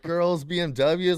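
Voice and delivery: high, loud, slow excited question; hammed-up delight; mock thrilled. Teen dazzled by the recruiter's pitch, mock thrilled. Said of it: "And I was like".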